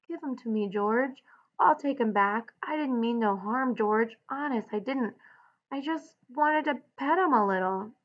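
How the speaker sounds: a hint of a childlike pleading man. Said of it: "Lenny held out his hands pleadingly".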